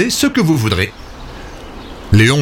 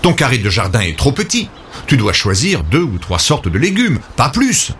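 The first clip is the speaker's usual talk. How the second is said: exclaiming Léon; 3 semitones higher than usual. Acted. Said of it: "Léon s'écrie".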